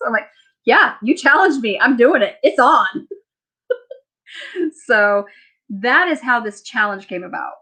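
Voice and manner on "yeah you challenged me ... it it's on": punchy, slightly raised retort; retold defiance. Answering the friend who challenged her, mock-defiant. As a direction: take up the dare with mock bravado.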